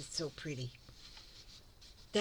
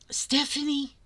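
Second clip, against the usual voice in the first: excited call; 9 semitones higher, 4 dB louder than usual. Real, not acted. Calling out to the sender.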